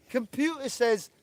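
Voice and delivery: high, loud comic impression with a cough; Little Britain catchphrase. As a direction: parody a sketch character, cough before the refusal. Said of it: "Little Britain".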